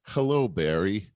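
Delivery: soothing radio psychiatrist, sinking low and slow; Frasier Crane. Acted. Radio psychiatrist answering a caller, late-night DJ voice. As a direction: draw out the last words, low and inviting. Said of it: "he would say".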